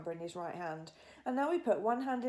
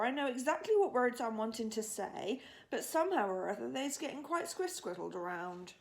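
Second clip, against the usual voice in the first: BFG; 4 semitones higher than usual. Acted. BFG explains his word troubles.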